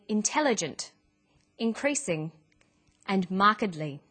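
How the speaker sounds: each word said with its stressed syllable clear: inTELligent, inCREASing, MARKedly; word stress demo. Shown as a demonstration. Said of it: "which syllable to stress".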